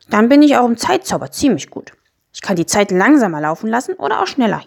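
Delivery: little creature showing off his tricks; lightly voiced Miesmuffel, proud. Miesmuffel lists his three spells to the children, mildly proud. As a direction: build to an eager offer at the end.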